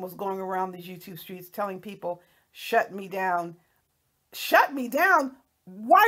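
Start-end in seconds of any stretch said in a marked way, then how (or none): 4.3-5.3 higher, louder, slow scoffing repeat; incredulous mocking echo. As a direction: throw her words back in disbelief, slowly. Mocking echo of her challenge.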